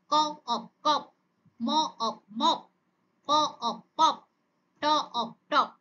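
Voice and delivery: onset, rime, whole word, as in ম... অপ... মপ; phonics sound-out. Shown as a demonstration. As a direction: say ক, pause, অপ, pause, then blended কপ. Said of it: "তার sound গুলোকে আমরা কি করব". (থেমে থেমে ক, অপ, তারপর একসাথে কপ)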